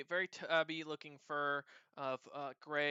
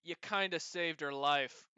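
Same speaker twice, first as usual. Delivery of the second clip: Tenem; 7 dB louder than usual. Acted. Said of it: "Tenem looks at her and says".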